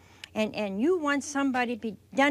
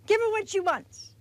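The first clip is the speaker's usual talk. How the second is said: higher, pushy plea to be rid of her; impatient pleading; 7 semitones higher, 3 dB louder than usual. Acted. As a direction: urge him, fed up and impatient. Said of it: "the disciples pleaded with him".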